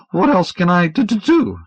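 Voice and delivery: high, stammering frightened man; nervous stammer. Acted. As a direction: stutter it out high and anxious. Dunlop's stammering voice.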